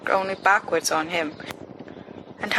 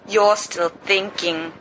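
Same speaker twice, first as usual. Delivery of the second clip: lazy Sirius voice; slower than usual. Acted. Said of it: "Sirius says".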